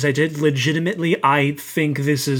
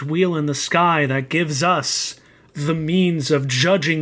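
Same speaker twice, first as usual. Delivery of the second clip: zealous proclamation. Acted. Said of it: "It gets more and more zealous every time".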